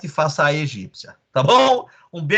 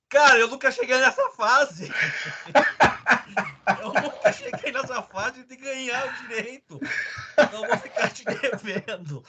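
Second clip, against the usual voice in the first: laughing; 8 semitones higher than usual. Real, not acted. Laughing at caller's absurd question.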